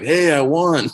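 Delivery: mock-proud call from the back; oblivious winner. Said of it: "and he's like".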